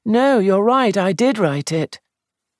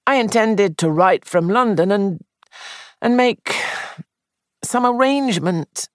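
rising into agitation; high and excited; 11 semitones higher than usual. Acted. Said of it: "Sandford's voice rose high and excited".

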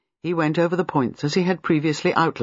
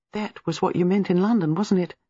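breathless; 4 semitones higher than usual. Acted. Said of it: "Gwenda asked breathlessly".

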